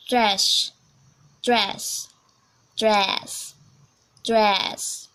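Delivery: American "dress", longer open vowel; demonstrated American "dress"; American accent. Shown as a demonstration. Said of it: "American, American accent".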